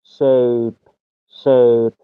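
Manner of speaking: drawn-out "شیپ" with an "ey" vowel, like English shape; long A sound. Shown as a demonstration. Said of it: "ای با ساوند ای هست".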